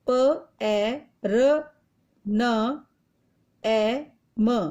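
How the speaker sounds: प, ए, र, न, ए, म spoken one by one, slowly; spelling out letters. Shown as a demonstration. Teacher to pupils, joining letters into a word, slowly spelled. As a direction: dictate each letter separately. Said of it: "वर्ण संयोजन करके लिखना है".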